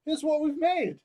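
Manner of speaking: high, loud proud brothers; eager offering. Retold or imitated. Brothers presenting their offering to God, high and eager. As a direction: hold up the gift and beam at God. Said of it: "go up to God and go".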